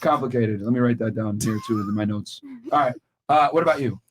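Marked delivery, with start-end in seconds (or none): none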